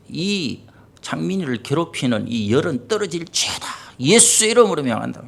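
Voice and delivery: re-enacted prayer of command. Father praying over his feverish child, retold commanding prayer. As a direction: order the illness out, as in prayer. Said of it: "명령기도 같은 거 하죠".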